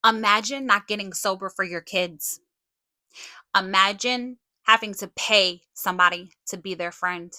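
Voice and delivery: telling them off, full force; angry callout. Real, not acted. Furious callout at Kim and Lisa.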